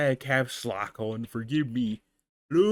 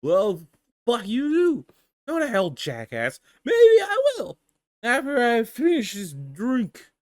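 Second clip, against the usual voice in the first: put-on sulky slurring drunk god; drunken god voice; 5 semitones higher, 3 dB louder than usual. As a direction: drunk petulant comeback. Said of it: "doing the drunken god voice".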